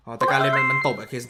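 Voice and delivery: normal talking voice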